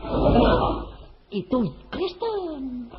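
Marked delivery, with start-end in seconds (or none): 0.0-0.7 high whispered squeak of surprise; a hammed-up startled question; mock surprise. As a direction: play the baffled listener, up high and breathy. Preacher voices a puzzled listener.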